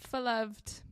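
"beloved" with its first syllable turned to "fuh"; playful mispronunciation. Pretend. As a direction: say "beloved" as "faloved". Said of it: "Two of those weren't words".

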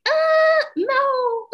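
high, loud drawn-out uh no; snotty refusal. Pretend. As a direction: refuse with a dismissive sneer. Imagined rude refusal.

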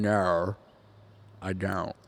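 "No" and "don't" said Australian, O ending in an R; O turned to R. Shown as a demonstration. Host explaining the Australian key, "No, I don't" with R-like O. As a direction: say "No, I don't" with R-coloured O vowels. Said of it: "replacing the O sound with an R".

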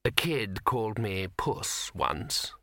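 slow, hesitant cat voice; doubtful cat. Acted. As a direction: draw it out as an unsure cat. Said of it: "said the cat doubtfully".

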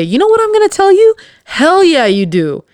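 high, loud and quick, gushing hype; hyped up. Real, not acted. To a friend who says they look good, loud excited hype. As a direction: cheer them on at full volume.

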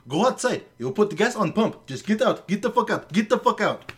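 retold manager losing patience; imitating angry yelling. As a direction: keep pushing her out the door. Manager insisting she leave store.

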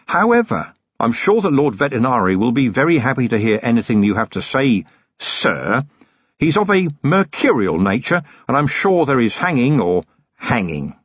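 lightly voiced weary copper, cold threat; a hint of a hard-bitten watchman; Vimes, grim and controlled. Vimes answers.

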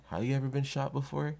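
put-on little kid asking back. Little kid asking the older guy his question back, innocently. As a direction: ask it back in an innocent high voice. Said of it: "I'm a little kid asking this older guy this question back".

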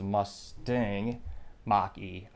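slow, sneering Mustang with a scoffing lift; scornful. Real, not acted. Host mocking the electric Mustang, sneering. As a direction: say Mustang like it's a fake. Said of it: "I say Mustang in a pejorative, derogatory".

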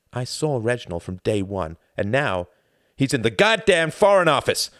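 building to a loud high outburst; voice rising. Acted. Gunther losing his temper at Tom, rising to a shout. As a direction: let it climb until it bursts out. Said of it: "Gunther's voice had risen suddenly".

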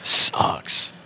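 breathy whispered wince. Real, not acted. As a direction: whisper it, cringing. Wincing at the memory.

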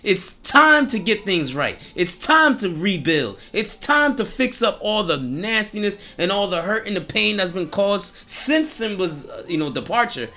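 loud, high, overjoyed ranting; excited Rafiki. Retold or imitated. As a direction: burst out with joy you can't hold in. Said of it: "can't refrain from expressing that".

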